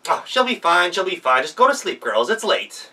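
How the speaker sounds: high, loud fake-grandma voice; a wolf sweetly playing granny; wolf disguised as grandma, cooing at the girls; wolf posing as grandma.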